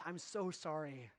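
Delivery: a hammed-up grovelling apology; overly apologetic. Shown as a demonstration. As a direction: lay the sorry on thick, fading to a murmur. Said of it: "Overly apologetic sounds like this".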